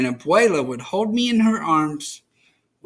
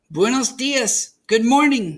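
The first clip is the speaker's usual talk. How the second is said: calling greeting; 8 semitones higher, 3 dB louder than usual. A narrator's reading. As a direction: shout hello to the flyers. People call up greeting.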